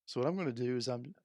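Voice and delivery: talking through hiccups; hiccuping. Real, not acted. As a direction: speak between burps and hiccups. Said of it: "excuse me while I just keep burping and hiccuping".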